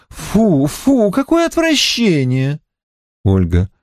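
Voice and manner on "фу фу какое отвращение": tearful voice. A narrator's reading. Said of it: "Ирина плачущим голосом".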